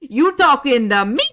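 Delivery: loud, high, indignant movie-quote voice; Lion King impression. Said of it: "All I can think of is Lion King".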